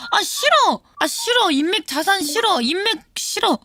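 high, whiny protest; petulant refusal. Real, not acted. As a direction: refuse like a sulky complainer. Rejects advice about networking.

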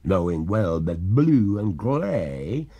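slow, mournful maiden ghost; wistful spirit recounting. Acted. Ghost tells her story.

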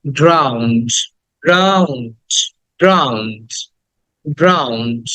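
"ড্রাউন্ড" as one syllable, "draund"; correct pronunciation. Shown as a demonstration. Teacher drills students, "ড্রাউন্ড" as one syllable. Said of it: "উচ্চারণটা হবে".

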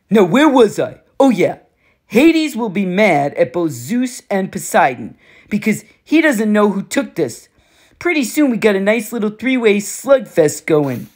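lightly voiced cocky war god, taunting; a hint of a swaggering bully, amused; smug war god. Ares gloats.

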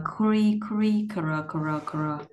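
"cre" with a light K before the R; K sound shown. Shown as a demonstration. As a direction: repeat "cre" as a drilled syllable, k plus r. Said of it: "mình có âm K". (cre có âm K đệm)

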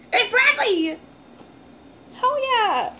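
high, loud, exultant exclamations; thrilled cheer. Real, not acted. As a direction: cheer it out like a delighted fan. Thrilled at seeing the signed shirt.

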